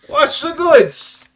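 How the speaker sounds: funny put-on New Jersey accent, high, loud. Voicing a character in the scene, in a funny New Jersey accent. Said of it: "this really funny New Jersey accent".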